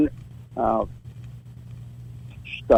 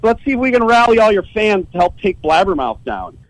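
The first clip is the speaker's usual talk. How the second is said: taunting; 4 semitones higher than usual. Retold or imitated. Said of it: "And I said".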